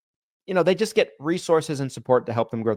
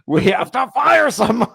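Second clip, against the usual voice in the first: mock serious; 10 semitones higher, 7 dB louder than usual. Joke after teasing.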